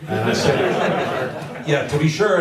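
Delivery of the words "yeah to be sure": put-on cheery Irish accent; mock Irish lilt. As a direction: play a stock Irishman. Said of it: "this guy was Irish".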